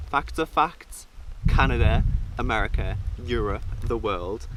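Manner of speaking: building loud proclamation; loud emphatic rant. Real, not acted. Vlogger defending a harsh critique, loudly. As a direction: declare it to the world.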